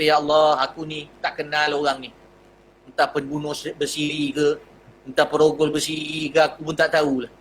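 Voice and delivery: low, worried murmur; anxious inner prayer. Retold or imitated. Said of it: "Buya kata". (doa risau dalam hati, perlahan)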